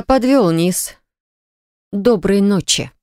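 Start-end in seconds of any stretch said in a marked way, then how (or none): 1.9-2.9 slow, formal goodnight; prim and dignified. Acted. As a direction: say it stiffly with dignity. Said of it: "чинно произношу я".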